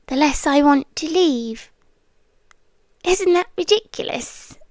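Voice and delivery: intimate, lightly voiced otherworldly captor; a seductive haunted-house presence making a deal; captive spirit pleading. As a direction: coax the listener to stay, half whispered. Captor entity bargaining with listener.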